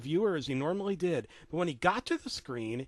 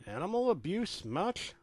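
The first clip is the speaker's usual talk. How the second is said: disgust; 4 semitones higher, 3 dB quieter than usual. Acted. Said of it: "I asked in disgust".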